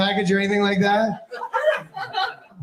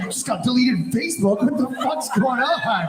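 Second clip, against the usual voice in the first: 1 mock panic; 3 semitones higher than usual. Comic panic of fired man.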